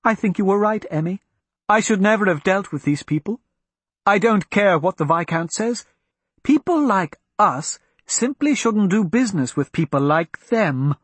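rattled lady fighting her nerves; anxious. Acted. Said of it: "trying desperately to control her own fear".

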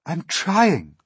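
high, loud, harried little glowworm; high-pitched plaintive reply; poor glowworm. A narrator's reading. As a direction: protest as a put-upon small creature. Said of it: "answered the poor glowworm".

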